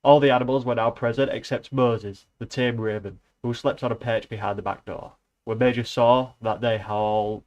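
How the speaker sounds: reading a novel aloud, even and steady; lightly voiced book reading, just telling the tale; story narration. Reading Animal Farm aloud to viewers, in an even storytelling voice.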